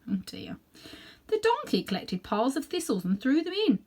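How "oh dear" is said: aside. Real, not acted.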